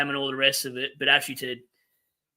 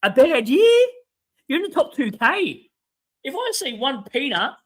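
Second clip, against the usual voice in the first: much higher, louder disbelief; incredulous outburst; 8 semitones higher, 5 dB louder than usual. Acted. Streamer scoffing at a top player's complaint, loud and incredulous. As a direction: throw the phrase back in utter disbelief.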